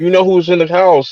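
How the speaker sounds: high, loud yell.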